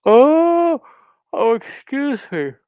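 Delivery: sudden high yelp from a hiccup; startled hiccup squeak then apology. Real, not acted. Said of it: "I'm yawning in your faces and belching and hiccuping".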